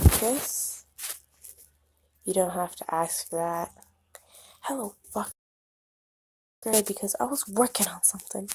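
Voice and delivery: soft unvoiced whisper. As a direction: keep it intimate and hushed. Whispered intimate exchange.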